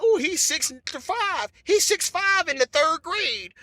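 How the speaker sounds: slow, drawn-out mock amazement; mock impressed parent. Parents marvelling at the tall boy, slow mock awe. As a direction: gush slowly over his height.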